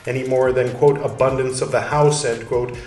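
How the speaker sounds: put-on measured, steady reading of an old text; calm scholarly reading voice; reading aloud. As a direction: read it like a lecture passage. Reads Luther translation text aloud.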